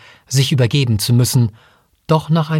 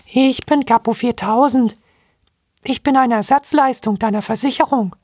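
much higher piping monkey voice; squeaky robot monkey; 11 semitones higher than usual. Acted. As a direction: chirp it like a tiny robot monkey. Little robot monkey introduces itself.

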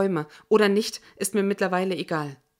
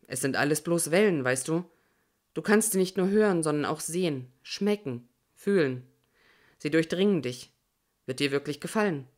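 a lightly softened, luring voice; soft and coaxing; 2 semitones lower than usual. Acted. Jorge luring the narrator toward death, softly coaxing. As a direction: coax her gently toward the other side. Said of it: "Jorges Stimme wird ganz weich, lockend".

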